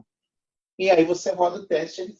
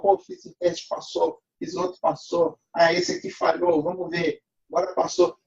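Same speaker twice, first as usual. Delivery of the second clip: excited inner voice. Retold or imitated. Acting out a developer's inner voice.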